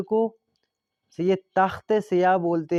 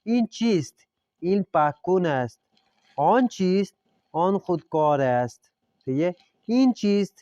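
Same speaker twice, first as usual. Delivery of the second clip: teacher reading aloud; 3 semitones higher, slower than usual. Shown as a demonstration. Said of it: "ان کو ہم نے ساتھ میں پڑھنا ہے۔".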